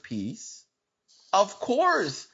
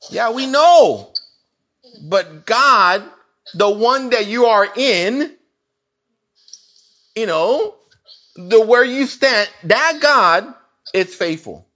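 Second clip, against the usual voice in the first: preaching loud; 6 dB louder than usual. Real, not acted. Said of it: "I'm not getting mad or nothing".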